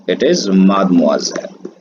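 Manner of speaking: mademoiselle spoken slowly, syllable by syllable; slow model pronunciation. Shown as a demonstration. Teacher slowly demonstrates mademoiselle to the class. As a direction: stretch out each syllable of mademoiselle. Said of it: "इसका जो pronunciation है".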